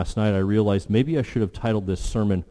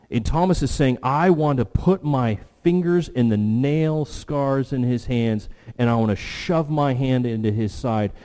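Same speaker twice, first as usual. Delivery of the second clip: impassioned preaching; 2 semitones higher than usual. Real, not acted. Preacher speaks as Thomas demanding proof, impassioned. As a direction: voice the doubter's demand with emphatic stresses.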